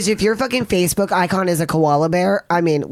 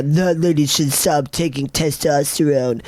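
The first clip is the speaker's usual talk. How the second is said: mocking troll quote; 3 semitones lower, slower than usual. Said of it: "half the comments are".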